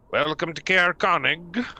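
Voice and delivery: town guard greeting. Acted. Guard NPC greets the party.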